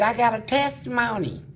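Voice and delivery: little inmate's put-on baby voice; soft baby voice. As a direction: sound small and sweet for the church folks. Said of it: "try to talk real soft, like a little baby".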